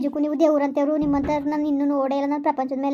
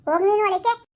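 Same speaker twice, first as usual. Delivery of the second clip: stern order; 5 semitones higher than usual. Acted. Father orders son inside.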